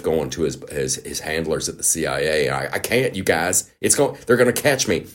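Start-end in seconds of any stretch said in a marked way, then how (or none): 2.5-5.1 lightly put-on Southern accent, nervous. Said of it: "giving Adam Schiff the Southern accent".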